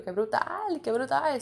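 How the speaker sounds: reliving delight, pitch climbing; excited self-quote. Retold or imitated. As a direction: exclaim it with rising enthusiasm. Acts out her own excited reaction.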